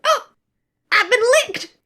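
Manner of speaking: high, hammed-up battlefield cry; mock wounded. Character hamming up being licked, high mock dying cry. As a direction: play it like a soldier shot down. Mock dramatic fall from lick.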